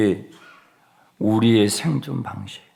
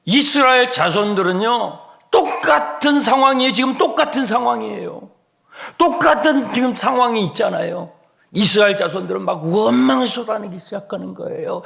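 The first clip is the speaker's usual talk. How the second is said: high, raised preaching voice; impassioned preaching; 11 semitones higher, 5 dB louder than usual. Real, not acted. Preacher likens the congregation to complaining Israelites, impassioned preaching. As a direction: preach it urgently at a high pitch.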